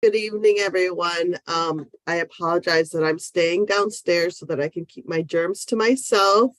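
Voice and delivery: stuffy nose from a cold; nasal voice. Real, not acted. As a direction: speak with a blocked, nasal tone. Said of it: "You can see I sound a little nasally".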